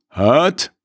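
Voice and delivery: put-on slow, low heavy Russian accent. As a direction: imitate a Russian fighter's accent. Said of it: "so einem ganz schweren russischen Akzent".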